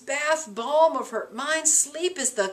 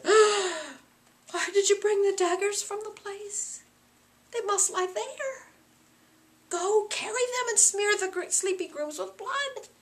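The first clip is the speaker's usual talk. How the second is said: higher, slow and urgent; alarmed Lady Macbeth; 9 semitones higher than usual. Acted. Lady Macbeth ordering her husband to return the daggers, higher. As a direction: order him back at once.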